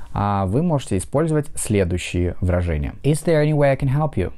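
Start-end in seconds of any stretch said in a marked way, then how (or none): 3.0-4.3 is there any way I can help you with way and help stressed. Shown as a demonstration. Teacher models stress on way and help. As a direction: lean on way and help. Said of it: "два слова под ударением way и help".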